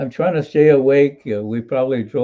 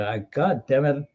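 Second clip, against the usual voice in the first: rising, exasperated rant, pitch climbing on each bus; retold angry outburst; 3 semitones higher than usual. Young soldier snapping at the unhelpful operator, exasperated. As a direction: vent the frustration, half-laughing at it now. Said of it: "And I got angry".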